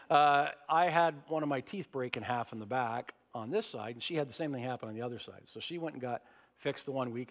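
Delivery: talking with a sore jaw; can't open the mouth wide. Real, not acted. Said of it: "I can't open my mouth very wide".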